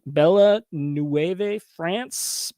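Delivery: "Bella Nueve" drawn out very slowly with flat English vowels, no French accent; anglicized French name. Real, not acted. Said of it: "not how you say it with a French accent".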